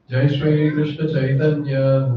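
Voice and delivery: slow chanted call for the group to repeat; sing song rote recitation. Shown as a demonstration. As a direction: intone each name slowly, like a prayer leader. Leads invocation prayer for repetition.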